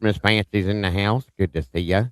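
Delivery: lightly put-on Southern accent; a hint of mock Southern twang; bad Southern accent. Host greets Miss Fancy in the chat, bad Southern accent. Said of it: "That was a really bad Southern accent".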